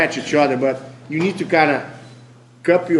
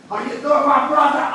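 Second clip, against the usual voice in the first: excited greeting; 11 semitones higher than usual. Acted. Greeting partner with big hug.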